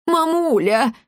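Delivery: high-pitched squeaky plea; drawn-out little squeal; squeak. A narrator's reading. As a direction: squeak it like a scared son. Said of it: "пискнул он".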